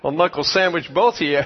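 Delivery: laughing through a mock threat. Real, not acted. Pastor jokingly threatens the married couple, laughing. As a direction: tease them with a chuckle in the voice.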